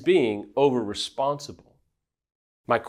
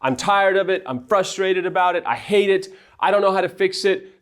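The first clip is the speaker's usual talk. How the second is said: honest confession; 6 semitones higher than usual. Shown as a demonstration. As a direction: let it all out in a rush of honesty. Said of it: "embrace it and go".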